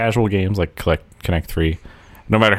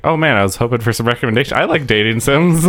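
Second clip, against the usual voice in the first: high whiny fan voice; 5 semitones higher, faster than usual. Retold or imitated.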